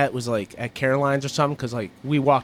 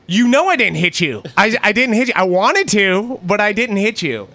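higher-pitched, insistent fake denial; mock loud protest; 5 semitones higher than usual. Embarrassing a girlfriend as she walks away, mock loud protest. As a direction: play wrongly accused, building for an audience. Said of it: "say that louder and louder".

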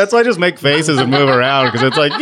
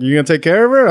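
mumbled question, pitched up; mumbling father-in-law; 6 semitones higher, 3 dB louder, faster than usual. Retold or imitated. Her dad checking on the fiancé, mumbled. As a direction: imitate a mumbling dad on the phone. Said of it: "Do you both mumble like that".

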